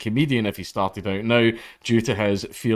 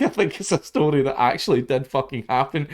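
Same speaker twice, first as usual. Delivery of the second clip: talking through a laugh, higher; 4 semitones higher than usual. Real, not acted. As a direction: chuckle through the line. Laughing while telling the joke.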